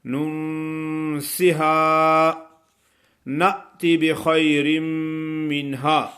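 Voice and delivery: slow chant with the waw lightly held; tajweed recitation. Acted. Teacher reciting for students, slow chant. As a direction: recite او ننسہا slowly.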